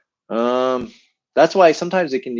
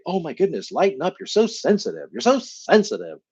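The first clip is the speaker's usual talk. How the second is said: higher, exasperated scolding voice; mock a parent telling a kid to lighten up; exasperated grown-up nagging a sensitive child; 6 semitones higher than usual. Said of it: "When you were probably told as a kid".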